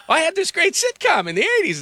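voce alta e lamentosa da Seinfeld; Seinfeld whining. Retold or imitated. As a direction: fai il divo anni ottanta offeso. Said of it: "So when Seinfeld goes to get his tickets".

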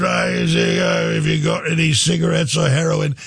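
put-on loose raspy London rocker accent, shouted up high; impression of a famous rock guitarist. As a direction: slur it out like an old London rock star asking for a fix. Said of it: "All the way out to Keith Richards".

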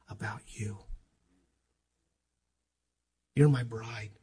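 soft, intimate whisper. Real, not acted. Preacher telling the congregation God loves them, whispered. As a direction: breathe it tenderly to them. Tender whisper of God's love.

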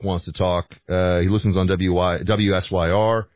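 scratchy, worn-out throat; hoarse voice. Real, not acted. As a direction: talk through a sore, hoarse throat. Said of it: "voice seems to be, like, an octave deeper".

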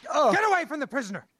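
fast shouted command; barked order. Acted. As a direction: drive him off sharply. Guard chasing off the man.

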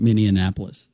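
Minneapolis as mini-an-APPLE-is; mistaken pronunciation. Retold or imitated. Host recalls an early mistake, Minneapolis misspoken. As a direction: slip an extra N into Minneapolis. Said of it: "made the mistake of saying".

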